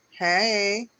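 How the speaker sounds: high, loud greeting; card figure calling. Acted. Card figure calls out again.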